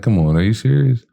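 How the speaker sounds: fast excited come on; disbelief. Retold or imitated. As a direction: push back in happy disbelief. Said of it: "I'm like".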